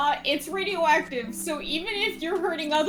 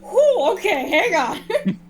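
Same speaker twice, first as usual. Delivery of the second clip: alarmed chat; 5 semitones higher, 6 dB louder, much slower than usual. Retold or imitated. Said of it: "me in chat was like".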